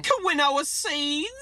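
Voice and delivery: playful creature-voiced hello; hammed-up monster intro. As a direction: announce yourself like a silly monster. Character intro, boogie monster.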